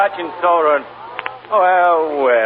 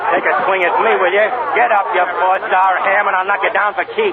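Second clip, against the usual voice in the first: taunting challenge; 5 semitones higher than usual. Acted. Press agent taunts the drunk actor.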